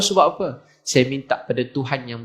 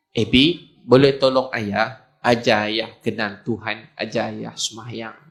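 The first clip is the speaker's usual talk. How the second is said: slow, low plea that softens at the end; gentle plea; 4 semitones lower, slower than usual. Retold or imitated. Father asking child to teach him prayer, gentle plea. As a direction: ask humbly, slowly, voice dropping away. Old father humbly asks for help.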